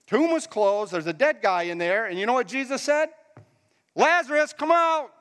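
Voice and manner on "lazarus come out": high, raised call; loud command. Acted. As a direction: call him out of the tomb. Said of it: "he said it in a loud voice".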